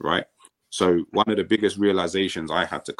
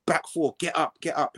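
mock shouting; 10 semitones higher than usual. Coaches ordering the back four up, mock shouting. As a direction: imitate coaches calling out without full volume. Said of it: "He did a lot of shouting".

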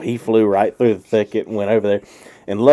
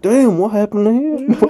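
puzzled friend; 11 semitones higher than usual. Retold or imitated. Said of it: "Andy's like".

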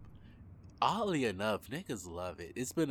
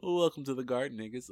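louder intro line; 5 semitones higher, 5 dB louder than usual. Shown as a demonstration.

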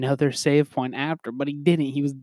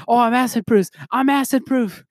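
cocky agent; 7 semitones higher than usual. Retold or imitated. Retelling the agent boasting he's acid proof, high cocky crow. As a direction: crow it like a proud fool. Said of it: "He goes like".

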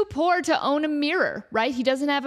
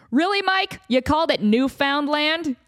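incredulous boss; 4 dB louder than usual. Acted. Bosses scold Mike.

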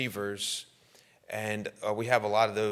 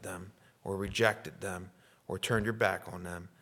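pastoral prayer. Real, not acted. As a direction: lead the congregation gently in prayer, pausing between phrases. Leads the congregation in prayer.

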